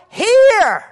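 hear shouted high and loud as Peter. Acted. Peter shouting hear to the men of Israel. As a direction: bellow hear across the crowd. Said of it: "And so he says".

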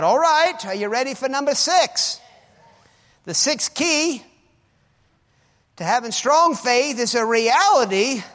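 loud, high sermon exhortation; full-force preaching. Acted. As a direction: drive it home to the congregation.

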